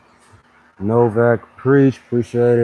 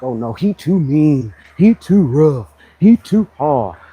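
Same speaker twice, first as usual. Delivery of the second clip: whiny complainer; 2 semitones higher, 5 dB louder, slower than usual. Retold or imitated. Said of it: "They be like".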